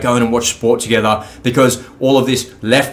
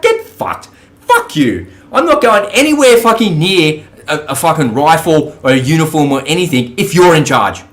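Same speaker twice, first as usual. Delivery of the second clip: angry refusal; 2 semitones higher than usual. Retold or imitated. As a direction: spit it back at the call-up, pitch way up. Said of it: "I'd be like".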